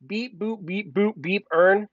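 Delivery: beep-boop robot voice. Pretend. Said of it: "he's a robot".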